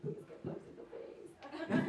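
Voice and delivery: whispered, no voice at all; secret prayer. Retold or imitated. Hoping the racist creep gets hit, a whispered prayer. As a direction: pray under your breath so nobody hears. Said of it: "secretly praying".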